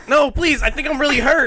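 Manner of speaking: high whiny fake plea; mock pleading. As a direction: beg like a faking kid. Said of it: "telling your older sibling".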